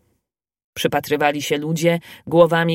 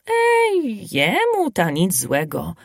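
laughing lightly; slower than usual. Acted. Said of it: "odpowiedział śmiejąc się Kuba".

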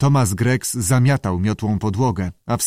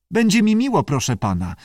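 very high creature voice dropping on the courtesy; squawky salamander; 7 semitones higher than usual. A narrator's reading. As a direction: squawk a polite acceptance. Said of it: "zaskrzeczała salamandra". (uprzejmy skrzek salamandry)

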